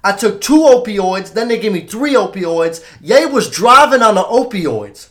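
loud, high-pitched celebrity rant; hammed-up rapper impression, drawing out key phrases; Kanye West impression. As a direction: imitate a star ranting at the room. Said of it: "I'm gonna do my impression of him".

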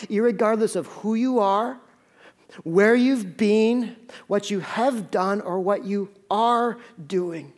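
each phrase drawn out slowly; slow and deliberate. Real, not acted. Preacher repeating God's love for the congregation to consider, slow and deliberate. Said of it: "let me say this again slowly".

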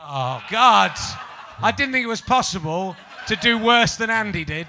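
laughing exclamation. Real, not acted. Host mocks contestant's answer.

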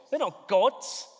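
emphatic; in-your-face. Shown as a demonstration. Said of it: "It's like an in-your-face moment".

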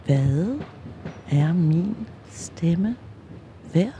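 slow, deep-supported, from the belly. Shown as a demonstration. Testing her voice, slow and from the belly. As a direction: push it up from deep in the stomach. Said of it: "Eller helt ned i maven".

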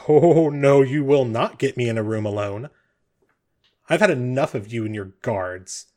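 indignant refusal, easing after the first burst; emphatic refusal. Acted. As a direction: refuse outright, starting loud. Eckard refuses the guard captain.

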